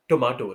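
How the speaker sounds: टोमेटो with full O, toh-MAY-toh; the common Indian टोमेटो; tomato with a full first vowel; wrong tomato. Shown as a demonstration. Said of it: "टोमेटो wrong है".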